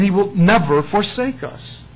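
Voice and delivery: "never" drawn out slowly and leaned on; stress on never. Shown as a demonstration. Preacher to his class, slow weight on "never". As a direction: lean on "never" so it lands. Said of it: "I underline the word never".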